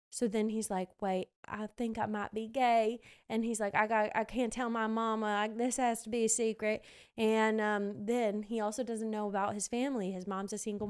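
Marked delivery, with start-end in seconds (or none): 1.0-3.0 lightly voiced country boy accent; a hint of country twang. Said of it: "my country accent". 3.7-6.8 lightly voiced country boy accent; a hint of country twang. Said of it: "my country accent".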